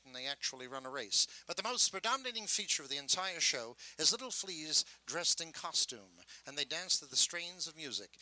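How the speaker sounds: lightly voiced sideshow pitchman; a gentle talker's spiel for the flea show; flea circus barker. Shown as a demonstration. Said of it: "this is how the flea circus sounded".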